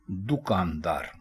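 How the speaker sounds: दुकानदार slow, du-kaan-daar; दुकानदार with short u, slowly; correct pronunciation. Shown as a demonstration. Teacher slowly stating the correct दुकानदार. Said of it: "दुरुस्त लफ्ज़ है".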